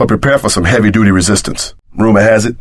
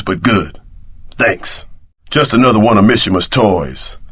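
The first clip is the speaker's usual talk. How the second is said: ordinary talk, nothing marked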